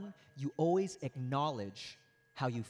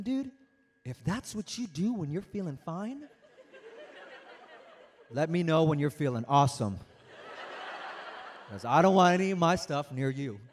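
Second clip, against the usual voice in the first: laughing inner thought; 3 dB louder than usual. Retold or imitated. Narrator's wry inner thought.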